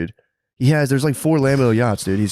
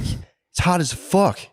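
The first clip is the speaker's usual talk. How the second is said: tired Wes imitation; 7 semitones higher, much slower than usual. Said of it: "he's so tired".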